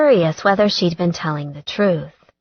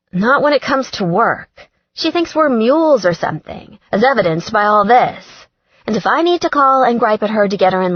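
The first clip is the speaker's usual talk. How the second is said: brisk, higher exasperated redhead; a fed-up friend griping, a bit higher; sister's stubbornness annoys her, higher and firmer; Gretchen, lightly voiced; 4 semitones higher than usual. Gretchen's dialogue voiced by narrator.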